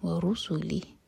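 ورسلہ slow, heavy ر, clear ہ at the end; heavy raa. Shown as a demonstration. Teacher demonstrates heavy raa softly. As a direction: recite ورسلہ with a full ر. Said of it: "ہا کا sound clear آئے".

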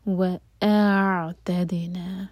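وَأَعْتَدْنَا slowly, a clean ء followed by the ع; hamza then ain. Shown as a demonstration. Teacher models وَأَعْتَدْنَا slowly for a student. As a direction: separate the ء and ع in وَأَعْتَدْنَا. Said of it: "پہلے حمزہ کا sound آئے گا اور پھر عین".

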